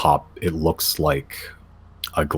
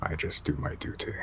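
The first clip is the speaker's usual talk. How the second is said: guttural Yeti elder; 12 dB quieter than usual. Acted.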